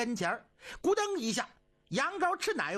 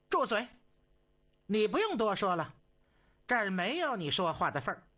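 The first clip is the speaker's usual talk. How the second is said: stern rebuke. Acted. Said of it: "东太后把手一摆".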